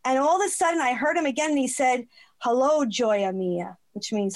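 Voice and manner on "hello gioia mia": low, drawn-out endearment; gently voiced grandfather's greeting, unhurried; tender retold greeting. Retells grandfather's spirit greeting her.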